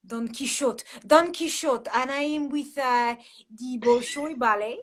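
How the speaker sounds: Russian ballerina's accent, put on. Shown as a demonstration. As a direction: speak as a Russian dancer from the Bolshoi. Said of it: "in a Russian accent".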